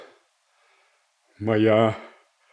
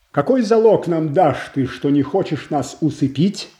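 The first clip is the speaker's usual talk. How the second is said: higher and louder, a hard demand for proof; angry challenge; 5 semitones higher, 3 dB louder than usual. Acted. Boyar to Godunov, accusing him of a trap, angry and raised. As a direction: throw the distrust straight at the rival.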